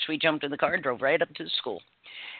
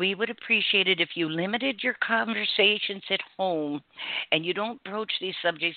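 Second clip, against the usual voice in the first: plain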